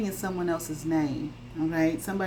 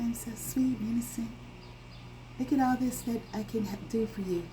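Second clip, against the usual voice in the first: soft, breathy, higher fake-sweet voice; mock innocent whisper; 4 semitones higher, 5 dB quieter than usual. Mocking a manipulator who pretends to be innocent, whispered. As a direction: play the sweet innocent liar, hushed. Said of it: "Try to".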